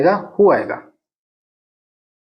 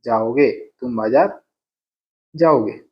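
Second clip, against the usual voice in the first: slow model sentence; 3 semitones lower than usual. Shown as a demonstration. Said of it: "ऐसा अपन को कहना चाहिए".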